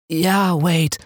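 deutlich höher, lustvoll den Namen rufend; sehnsüchtig um mehr bitten; flehend lustvoll. Acted. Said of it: "wie er mich beim Namen rief, mich um mehr anflehte". (Dev ruft lustvoll Wades Namen, flehend und deutlich höher)

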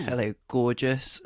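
slow, hammed-up Bristolian greeting; Bristolian accent. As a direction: stretch out a cheeky Bristolian hello. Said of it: "It's a Bristolian".

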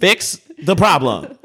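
slow, word-by-word angry order; exasperated, drawn-out demand; irate demand. Retold or imitated. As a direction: spell it out for the agent with force. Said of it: "Please, please stop yelling".

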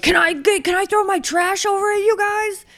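hammed-up plea shouted from a bike; mock calling out. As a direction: call across the road in mock desperation. Acted racer calling to tent crew.

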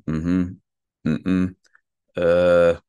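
closed-mouth hums, yes then no; short gut hums, then a loud uh; sacral grunts. Shown as a demonstration. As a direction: hum the answers, no words. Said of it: "the sounds I make".

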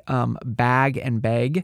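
"bag" and "beg" drawn out slowly, each vowel set apart; vowel demo. Shown as a demonstration. Host demonstrating regional vowels slowly, "bag" against "beg". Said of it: "how they say those two words".

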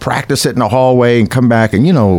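high, pushy casting director voice. Retold or imitated. Casting director urging actors to do the robot, high and pushy. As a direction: bark orders like an eager casting director. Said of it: "this casting director's like".

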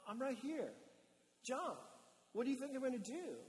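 fatherly, gently incredulous coaxing; dad in the pool. Acted. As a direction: reassure a nervous child in the water. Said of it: "the dad in the pool going".

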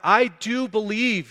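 a father's slow, heartfelt outcry; impassioned roar. Acted. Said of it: "he roared".

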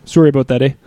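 light Canadian accent with a tagged-on "eh". Shown as a demonstration. Apologising as a stock Canadian, light Canadian accent. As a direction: put on a mild Canadian accent. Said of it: "he does a great Canadian".

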